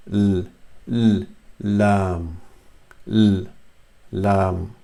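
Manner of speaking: L held alone, then lam, tongue on the palate; tongue-tip l. Shown as a demonstration. Teacher showing tongue placement, isolated L then lam. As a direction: sound a bare l before each lam. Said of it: "touch the tip of your tongue".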